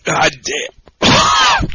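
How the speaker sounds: strained croak after chugging; real gasp after downing the beer; choked groan. Real, not acted. After chugging the beer, a choked groan. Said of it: "That's a good soundbite".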